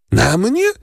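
shocked that it's her; zdumiona, wysokie "Na mnie?"; astonished. A narrator's reading. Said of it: "zdumiała się Valentin".

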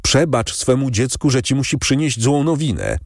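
high, lightly voiced pleading daughter; distressed pleading. A narrator's reading. Daughter breaking bad news to her father, pleading in distress. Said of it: "zawołała dziewczyna, załamując ręce".

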